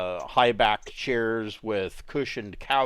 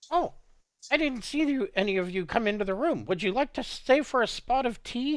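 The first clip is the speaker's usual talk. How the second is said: very high, tiny little voice; 13 semitones higher than usual. Narrating for the players, voicing someone emerging from the bookshelves in a tiny small voice. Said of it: "you hear a very small voice".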